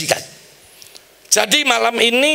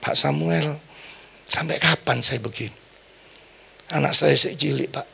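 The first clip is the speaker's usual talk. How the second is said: retold tearful plea; 2 semitones lower, 5 dB quieter than usual. Patient begs the pastor for help, soft retold tearful plea. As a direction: plead quietly, lightly imitating someone in tears. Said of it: "Datang ke rumah saya nangis ya".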